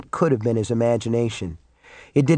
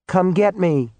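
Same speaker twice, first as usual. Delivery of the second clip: calling out; 7 semitones higher, slower than usual. A narrator's reading. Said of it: "she called in return".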